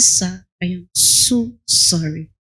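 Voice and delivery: calm him down gently; apologetic, soothing. Retold or imitated. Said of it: "I said".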